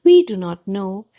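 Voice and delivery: clear, even read-aloud storytelling; calm children's story narration. A narrator's reading.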